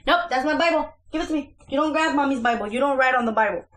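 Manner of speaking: stern no-nonsense parent voice; mother scolding daughter for grabbing her Bible, firmly. Real, not acted.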